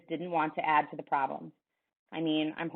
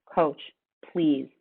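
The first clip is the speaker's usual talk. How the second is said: pleading, voice breaking; 3 dB louder than usual. Acted. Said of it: "The words began to break up in my throat".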